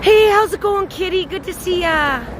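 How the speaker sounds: ordinary talk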